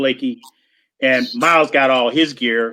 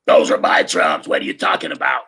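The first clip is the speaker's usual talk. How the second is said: deep voice through the canvas; offended drummer; 10 semitones lower than usual. Retold or imitated. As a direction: Art Blakey defending his kit. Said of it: "I heard a voice".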